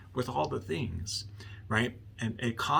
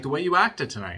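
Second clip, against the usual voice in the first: louder, higher acted-out accusation; retold accusation; 5 semitones higher, 8 dB louder than usual. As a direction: throw the blame back as the husband. Husband accuses wife in retold quarrel.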